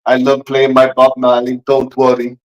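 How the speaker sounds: low put-on Jamaican accent; stereotypical Jamaican. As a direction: play a laid-back Jamaican caricature. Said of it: "mine's like the stereotypical".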